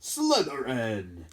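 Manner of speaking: drawn-out mild hat cry; hat calls Slytherin at once; hat screaming. Acted. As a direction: stretch out the house name.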